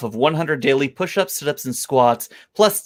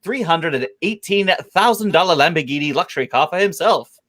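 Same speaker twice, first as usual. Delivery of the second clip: radio voice. Shown as a demonstration. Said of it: "I'm doing this one in radio voice".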